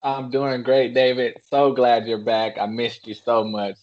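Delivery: dryly sarcastic fake welcome; mock-sincere, understated sarcasm. Real, not acted. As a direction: feign being glad with audible sarcasm. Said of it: "everyone could hear the sarcasm coming through".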